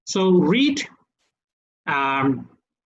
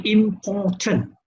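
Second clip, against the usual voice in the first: "important" broken evenly into its syllables; slower than usual. Shown as a demonstration. Teacher showing the class three syllables, syllable by syllable. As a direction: say "important" in separate beats, im-por-tant. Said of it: "So that's three syllables".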